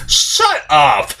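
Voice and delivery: high, dismissive mock retort; exasperated "shut up". Reviewer mocking the stupid dialogue, exasperated retort. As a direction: swat the line away like it's too dumb to bear. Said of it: "I'm like".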